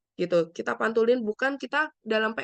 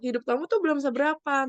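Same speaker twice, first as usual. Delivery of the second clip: mildly dismissive, higher pitch; higher, mock-judgmental put-down; judgmental belittling; 5 semitones higher, faster than usual. Shown as a demonstration. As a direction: act out belittling someone's trouble. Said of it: "kita tidak melakukan judgmental".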